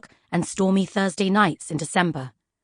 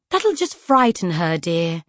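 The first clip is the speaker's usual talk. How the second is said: gently calm a worried friend; sweet, gentle; slower than usual. Acted. Encyclopedia of Flowers soothing Poisons, sweet and gentle. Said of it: "came the sweet, gentle voice".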